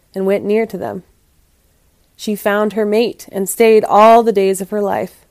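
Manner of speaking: expressive, dramatic storyteller read; story narration. A narrator's reading. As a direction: read it aloud like a fable with lively emphasis. Reads the story aloud.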